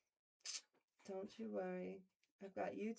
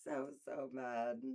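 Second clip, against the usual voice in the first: mock low grumble; 8 semitones lower, slower than usual. Low slow mock sulk.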